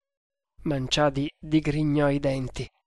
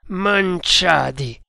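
louder, slow, drawn-out angry name; furious; 3 semitones higher, 5 dB louder, much slower than usual. Acted. Tremal Naik confronts his silent prisoner, furious. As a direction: say the name slowly, with contained fury. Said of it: "disse Tremal Naik furente".

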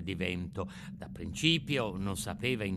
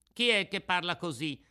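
chilled with fright; 7 semitones higher, 4 dB louder than usual. A narrator's reading. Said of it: "sentendosi gelare dallo spavento".

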